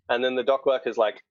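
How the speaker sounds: normal talking voice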